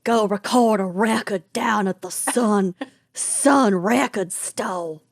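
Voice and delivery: lightly put-on Memphis accent. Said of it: "you nailed it".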